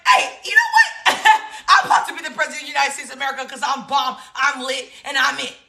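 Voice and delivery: hamming up a cocky Obama; a hint of a boastful president, laughing; mock confident Obama. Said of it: "And he was like".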